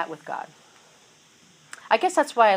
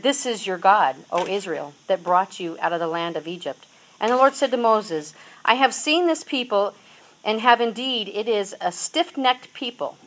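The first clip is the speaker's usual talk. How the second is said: louder, steady reading of the passage; scripture reading; 4 dB louder than usual. Acted. Preacher reading Exodus to the congregation, earnest. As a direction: lay out the story from the pulpit. Reads Exodus thirty-two aloud.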